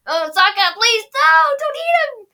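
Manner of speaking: high panicked plea, rising; high pleading cry. Retold or imitated. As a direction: beg him not to, high and loud. Katara pleading.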